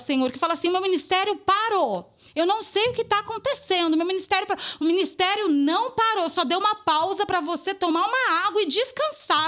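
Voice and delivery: intercede aloud with urgent, rising conviction; fervent, declarative prayer in running phrases. Real, not acted. Praying over anxious, hidden people who think their ministry stopped, fervently.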